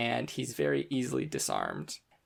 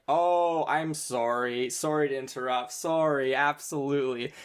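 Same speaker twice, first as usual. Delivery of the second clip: sarcastic apology; 2 semitones higher, 5 dB louder than usual. Acted. Mock apology by bully NPC.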